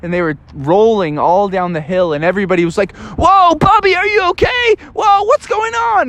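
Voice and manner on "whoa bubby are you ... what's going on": high, worried call to Bubby; worried friends. Acted.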